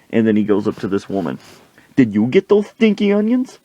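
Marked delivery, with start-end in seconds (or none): 2.0-3.6 high-pitched, hammed-up questioning; pestering demand. Coach accosting a woman, high pestering demand. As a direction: interrogate in a pushed-up voice.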